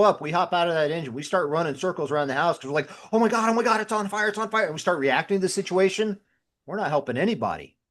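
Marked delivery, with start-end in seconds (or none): 3.1-4.6 imitating a panicked rookie, a bit higher; retelling firefighters who lose their heads, in mild mock panic. A firefighter mocks crews who panic at a fire, in mild mock panic.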